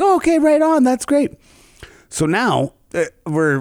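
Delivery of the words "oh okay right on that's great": high, bright, fake enthusiasm; mock impressed. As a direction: pretend to be impressed, overdone. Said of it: "It's like".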